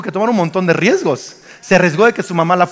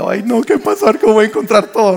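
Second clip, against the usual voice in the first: retold dread in a slightly raised voice; mock alarm; 2 semitones higher than usual. Preacher retelling his wife's scare at breakfast, mock alarm. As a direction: play up a mild "oh no" panic. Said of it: "Me asusté".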